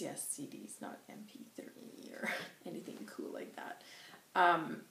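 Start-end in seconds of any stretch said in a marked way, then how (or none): 0.0-3.8 whispered embarrassed aside; hushed aside. Real, not acted. Whispering to the viewers about her old CDs. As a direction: drop to a whisper, a little sheepish.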